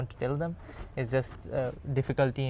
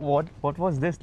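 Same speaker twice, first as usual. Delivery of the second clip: laughing confusion; 3 semitones higher than usual. Real, not acted. Confused by the repeated text.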